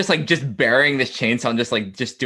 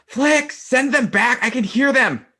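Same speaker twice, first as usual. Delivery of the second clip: frightened yell; 5 dB louder than usual. Acted. Beck yelling to Flick that she hears pirates, high loud yell. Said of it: "you just hear her yell".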